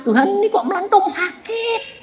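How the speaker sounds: very high-pitched mock wail; pained complaint. Preacher waking swollen, asking God why, hammed-up wail. Retells wailing to God over swelling.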